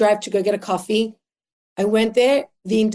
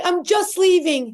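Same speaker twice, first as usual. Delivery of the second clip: retold plea; 9 semitones higher, slower than usual. Retold plea to police officer.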